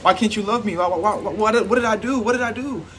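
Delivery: hammed-up begging that ends in a whine; mock distraught pleading. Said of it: "you like".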